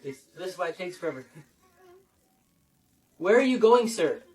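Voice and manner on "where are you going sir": better take. Shown as a demonstration. The better take he keeps. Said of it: "That one was better".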